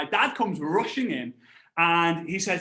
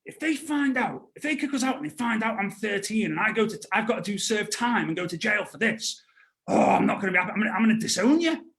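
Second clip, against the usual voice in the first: freaking out; 2 semitones higher than usual. Retold or imitated. Boy scolding dad over getting caught, mock freak-out. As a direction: fret urgently, then get cross, lightly acted. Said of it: "freaking out, like".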